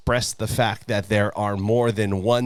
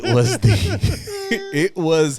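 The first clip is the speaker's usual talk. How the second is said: laughing while delivering the punchline; slow, laughing punchline; 6 semitones higher, 4 dB louder, slower than usual. Real, not acted.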